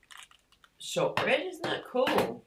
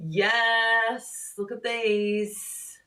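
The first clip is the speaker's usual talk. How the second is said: excited; 6 semitones higher, 6 dB louder, much slower than usual. Real, not acted. Shows off the shortbread gift.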